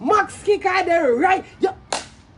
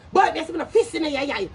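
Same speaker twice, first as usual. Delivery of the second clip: mock boast; faster than usual. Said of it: "you want to say".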